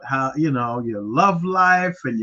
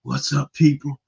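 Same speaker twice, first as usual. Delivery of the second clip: mock psychic persona; 3 semitones higher than usual. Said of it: "have a completely different personality today".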